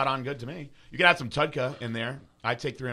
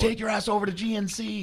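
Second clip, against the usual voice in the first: higher, louder sarcastic brush-off; mock brush-off; 10 semitones higher, 4 dB louder than usual. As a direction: shoo the caller away. Mocking the agent's advice.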